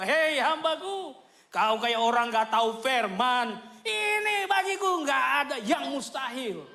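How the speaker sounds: slow, booming chiding voice; a loving rebuke from above, slow; voice of God. Acted. Preacher gives God's voice chiding his doubting servant, slow and loud. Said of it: "Tapi Tuhan bilang".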